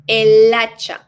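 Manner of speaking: "El hacha" punched, the L running into the silent h; el hacha, linked. Shown as a demonstration. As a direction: say "El hacha" smooth and loud. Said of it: "If we were to say la hacha".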